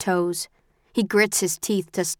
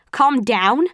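louder, higher incredulous echo; rising outrage; 5 semitones higher, 5 dB louder than usual. Acted. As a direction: throw his words back, angrier. Incredulous repeat, building anger.

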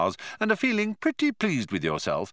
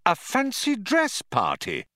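mild anger; 11 semitones higher than usual. A narrator's reading. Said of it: "trembling with anger".

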